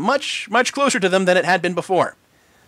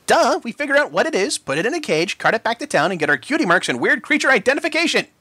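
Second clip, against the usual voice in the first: eye-rolling; 7 semitones higher than usual. A narrator's reading. Filly explains with eye-roll.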